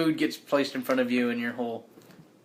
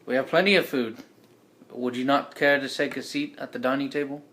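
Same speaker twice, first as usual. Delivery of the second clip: put-on British accent. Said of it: "It's my best British accent".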